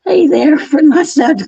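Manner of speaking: tearful giggling hello; laughing greeting. Real, not acted. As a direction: greet him while cracking up. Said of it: "full of tears from laughing".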